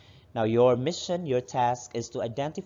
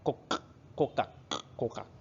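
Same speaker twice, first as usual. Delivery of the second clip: frog croak; 7 dB quieter than usual. Shown as a demonstration. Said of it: "A frog says".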